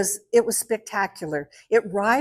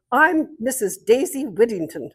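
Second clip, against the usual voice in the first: imitated British lady introducing herself; 3 semitones higher than usual. British neighbour stands to introduce herself, imitated very British accent. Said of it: "very British".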